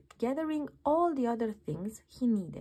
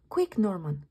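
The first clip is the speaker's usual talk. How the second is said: urgent cry; 2 semitones lower, 4 dB louder than usual. Acted. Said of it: "cried the snails".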